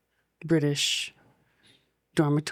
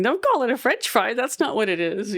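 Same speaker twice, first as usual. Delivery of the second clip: mock indignant French; 6 semitones higher than usual. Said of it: "French people are like".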